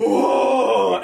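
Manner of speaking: a startled Texan's whoa; Texan caller startled by the friendly answer. Retold or imitated. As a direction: jump back in surprise, whoa. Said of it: "And he goes like".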